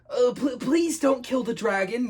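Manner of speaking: slow, high pleading yell. Acted. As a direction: cry out to stop someone. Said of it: "yelled Jake".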